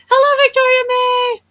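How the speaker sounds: high cheerful greeting in another voice; bright mock greeting to the dog; impression of Charlie Grace. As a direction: greet the dog as someone else. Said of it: "I'm really bad at impressions".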